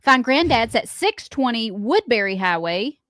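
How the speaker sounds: measured list-reading of a lunch menu; radio ad read. Acted. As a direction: read it out like a local radio spot. Reads a restaurant's lunch ad.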